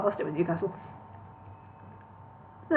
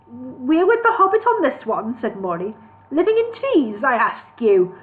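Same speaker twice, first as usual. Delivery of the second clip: higher, louder dwarf; 4 semitones higher, 4 dB louder than usual. Acted. Dwarf siding with hobbit against elves. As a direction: scoff at tree living.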